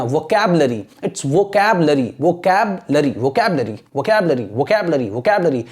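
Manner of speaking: vocabulary said lightly, low and quick, not syllable by syllable; quick pronunciation drill. Shown as a demonstration. Teacher drills vocabulary for students, low and light. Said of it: "पूरा पूरा नहीं ऐसे करना".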